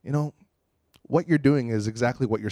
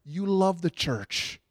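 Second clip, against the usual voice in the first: tender prayer; slower than usual. Retold or imitated.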